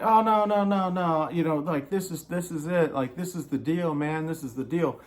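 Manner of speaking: lightly voiced landlord, high and pleading; a hint of the landlord talking fast to smooth it over; mock landlord. Landlord brushing off the tenants, mildly mocked.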